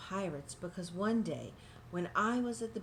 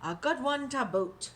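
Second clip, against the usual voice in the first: hearty chorus of pirates; pirate crew agreeing; 5 semitones higher, 4 dB louder than usual. Acted. Crew agreeing with their captain. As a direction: echo it like a rowdy crew. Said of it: "the others agreed".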